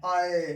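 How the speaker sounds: "आए" drawn from aa into e; aa-e vowel glide. Shown as a demonstration. Teacher repeating the sound for students, aa-e glide. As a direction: say "आए" as two joined vowels. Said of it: "आपको उच्चारण करना है".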